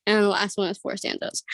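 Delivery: winded, short of breath. Real, not acted. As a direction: talk through heavy breathing. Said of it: "I'm so winded".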